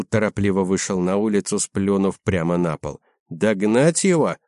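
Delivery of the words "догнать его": lisping. Acted. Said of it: "шепелявым голосом спросил Верзила".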